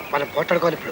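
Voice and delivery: low, soft conspiratorial aside; hushed aside. Acted. Telling the other they must fight now, hushed aside. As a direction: keep it down between the two of you.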